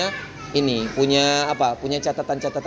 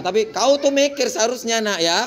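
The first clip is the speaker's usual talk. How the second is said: put-on high-pitched lecturing of a small child; exaggerated reproach to a kindergartner; mock scolding; 5 semitones higher than usual. Shown as a demonstration. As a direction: imitate an over-serious telling-off. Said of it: "kita marahi anak T K".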